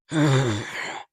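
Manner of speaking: weak, low mock roar; bad lion roar. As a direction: try a lion roar and fall short. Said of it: "That was a bad Lion impression".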